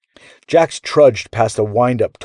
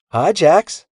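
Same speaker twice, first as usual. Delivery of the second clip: put-on cheerful kid; 8 semitones higher, 4 dB louder than usual. A narrator's reading. Pip cheerful greeting.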